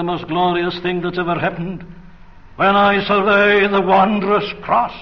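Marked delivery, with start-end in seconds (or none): 2.6-4.9 proclaimed hymn line. Acted. Quoting a hymn in sermon.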